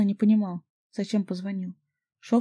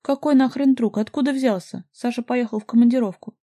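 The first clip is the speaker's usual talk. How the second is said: angry shouting, louder and higher; furious bark; 4 semitones higher, 7 dB louder than usual. A narrator's reading. Jealous man barking at a stranger on the phone, furious. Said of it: "и я рявкнул".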